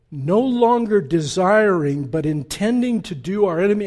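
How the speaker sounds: reading the devil's letter very slowly; slow deliberate reading. Retold or imitated. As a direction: weigh every word of the quote. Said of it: "and he says".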